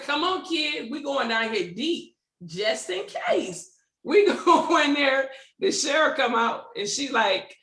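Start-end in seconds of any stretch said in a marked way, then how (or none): 0.0-3.7 slow mock-solemn call. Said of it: "I said".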